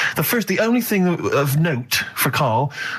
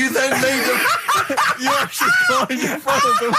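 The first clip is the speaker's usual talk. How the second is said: laughing so hard the voice rises high; words breaking up with laughter; laughing while talking. Real, not acted. Laughing at Carl's story.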